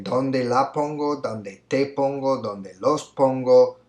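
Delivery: reading out the options slowly, one by one; slow answer choices. Shown as a demonstration. Teacher reading the options slowly to the class. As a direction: lay out each choice clearly for the students. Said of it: "we can say".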